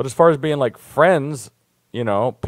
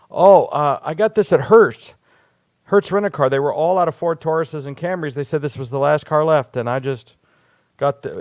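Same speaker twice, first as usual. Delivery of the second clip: playing dumb. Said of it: "I always play stupid".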